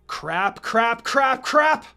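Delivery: rising alarm with each word; panicked cursing. Acted. Naruto glancing at the clock, late, building panic. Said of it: "Naruto muttered".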